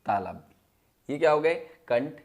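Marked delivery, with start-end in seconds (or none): 0.1-1.1 slow term drill. Shown as a demonstration. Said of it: "इसको हम कहते हैं".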